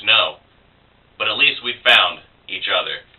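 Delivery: measured, dramatic spoken-word delivery; poetry reading. Acted. Poet reads First Bloodshed to blog viewers, dramatic poetry reading. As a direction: recite it line by line with deliberate pauses. Reads own poem aloud.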